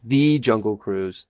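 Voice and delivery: "The" leaned on, whole phrase said slowly; slow down and lean on "The" as if it's the only one; stress on THE. Shown as a demonstration. Making his case for the original rides, he slowly stresses "The". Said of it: "emphasize the word "the".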